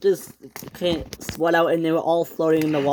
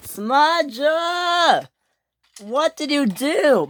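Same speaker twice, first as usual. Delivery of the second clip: angry shout; 11 semitones higher, much slower than usual. A narrator's reading. Victor shouting at Smudger over the accident. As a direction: demand an answer from the culprit.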